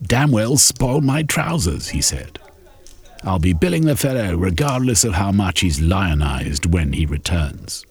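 lightly voiced irritated gentleman; Shermy grumbling. Shermy complains about the explorer to the table, mild grumble. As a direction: grouse about the ruined trousers.

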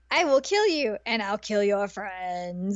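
lightly voiced cartoon villain, ending drawn out; threatening villain. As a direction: threaten with mock menace, slowing down. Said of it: "And then he's like".

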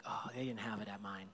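soft whisper, a touch let down; whispered disappointment. Retold or imitated. Dad voicing his son's quiet letdown. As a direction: hush it like a boy hiding disappointment.

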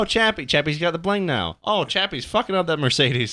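half-watching drinker narrating the screen; bar patron reacting. Bar-goer commenting on Chappie, mildly mock-amazed. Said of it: "people were like".

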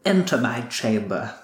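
low haunting voice. Acted. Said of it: "You hear a low voice call out".

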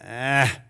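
subdued guttural "ah"; guttural exclamation. Retold or imitated. Preacher imitating what his boys make fun of, guttural exclamation. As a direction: toss out a throaty, exasperated groan. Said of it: "That's exactly what I say".

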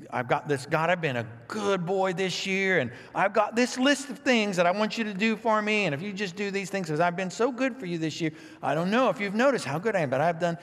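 lightly voiced child bargaining with God; a hint of a child pleading to Santa. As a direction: wheedle like a kid who's been good. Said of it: "God like a sort of a cosmic Santa".

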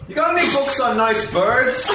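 mild shout. Acted. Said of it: "Jack just shouts out".

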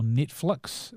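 Netflix drawled slowly in a mock New Zealand accent, the vowel pushed toward Nitflix; a joking New Zealand Netflix. Shown as a demonstration. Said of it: "as they call it in New Zealand".

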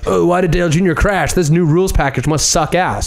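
high, whining parody of a fan; whiny fan. Retold or imitated. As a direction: sneer it like a sore-loser fan. Mocking whiny fans' complaints.

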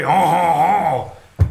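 imitating his French laugh; mock French oh-ho-ho. Host mocking a player's failed attempt, mock French. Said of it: "You can't just say".

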